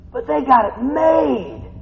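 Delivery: high, loud, slow proclamation; slow ringing declaration. Real, not acted. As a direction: stretch it out, proclaim. Preacher consoling mourners.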